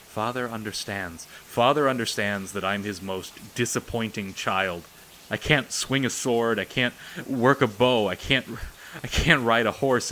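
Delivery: loud, rising, frustrated rant. Acted. Disabled son ranting to his sister about failing father. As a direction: build a bitter tirade of can'ts. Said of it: "Satoshi ranted".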